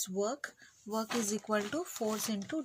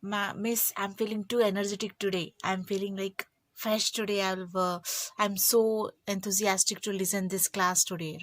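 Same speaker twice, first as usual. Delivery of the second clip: quick, bright, keen pupil, a touch louder; eager student; 3 dB louder than usual. Pretend. Teacher voicing Manjushri, eager about today's physics class, mock-excited. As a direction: sound thrilled to be in class. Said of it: "Manjushri will say".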